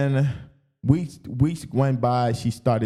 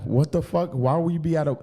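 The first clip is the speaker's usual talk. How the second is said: higher-pitched mock outrage; retold outraged questioning; 6 semitones higher than usual. Questioning girlfriend about the party, retold outrage. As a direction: retell a startled, cursing challenge. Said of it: "I'm questioning her".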